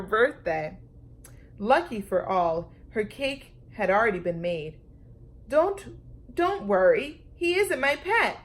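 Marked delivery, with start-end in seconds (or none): 5.5-8.4 put-on high, bright child's reassurance; calm her parents like a little girl; Lulu reassuring. A narrator's reading. Lulu tells her parents not to worry, high child's voice. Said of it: "Lulu said".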